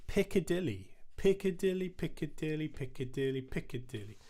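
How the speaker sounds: "Piccadilly" spoken as four even beats, PIC-ca-DIL-ly; Piccadilly chanted in steady reel rhythm; rhythmic Piccadilly. Shown as a demonstration. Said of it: "We're gonna use the word Piccadilly".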